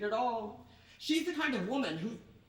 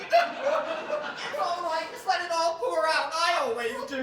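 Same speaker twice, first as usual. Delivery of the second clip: weeping; 8 semitones higher, 9 dB louder, slower than usual. Acted. Sisters weeping together.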